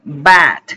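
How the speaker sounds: "bad" with a vowel between "ah" and "eh". Shown as a demonstration. Teacher modelling "bad" with the cat vowel, between A and E. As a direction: say "bad" with A leaning to E. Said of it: "Es el mismo sonido vocálico".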